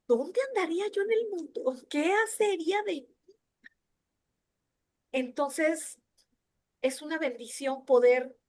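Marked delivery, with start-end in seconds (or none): 0.1-3.1 higher-pitched rhetorical plea; heartfelt wondering. Retold or imitated. Speaker thanking God for holding her up, retold heartfelt plea. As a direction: wonder aloud to God, voice lifted.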